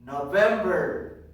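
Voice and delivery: loud and stretched out; drawn-out, emphatic model word; teacher's drill call. Shown as a demonstration. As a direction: call it out slowly for the class. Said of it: "I am going to say".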